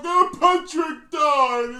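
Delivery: mock wail. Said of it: "be like".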